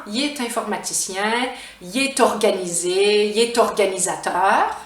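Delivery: "il est" as "yé" with a t before each vowel; contraction with liaison. Shown as a demonstration. Teacher listing vowel examples for learners, liaison pronunciation. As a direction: link "yé-t" onto "informaticien", "organisé", "organisateur". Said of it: "je fais la liaison".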